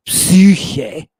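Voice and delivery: "psyche" as "psyuu-khay", first vowel held; long upsilon. Shown as a demonstration. Teacher contrasting vowel lengths, long Greek vowel in "psyche". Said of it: "The vowels have different lengths".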